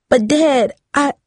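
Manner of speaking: high-pitched objection, cut short; pleading protest. A narrator's reading. Daughter tries to explain to father, pleading. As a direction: start to plead, then get cut off.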